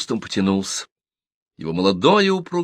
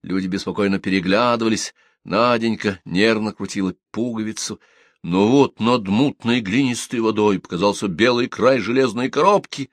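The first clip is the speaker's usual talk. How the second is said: ordinary delivery, nothing marked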